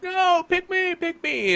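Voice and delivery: high-pitched pleading shout; clamoring. Acted. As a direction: beg loudly to be picked, voice shooting up. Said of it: "everybody at the end tables are all like".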